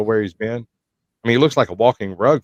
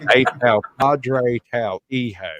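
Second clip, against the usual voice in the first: lightly Southern drawl on Spanish; a hint of a Texan speaking Spanish; mock Southern Spanish; Southern-accented Spanish; slower than usual. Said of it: "Spanish with a Southern accent".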